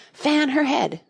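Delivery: high, loud anxious order; queen fussing over Alice, anxious. A narrator's reading. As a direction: cut in with worry. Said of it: "anxiously interrupted".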